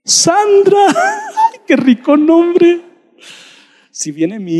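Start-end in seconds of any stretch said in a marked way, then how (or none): 0.0-0.9 high, loud calling of names; God calling. Acted. God calling believers by name, high and loud. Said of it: "te va a llamar y te va a decir". 0.9-2.8 high laugh into a delighted remark; delighted chuckle at a name. Real, not acted. Preacher laughing with delight at the name Sandra.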